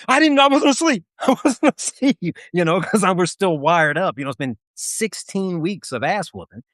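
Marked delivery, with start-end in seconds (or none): 0.1-2.4 flustered denial. Retold or imitated. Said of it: "I'm like".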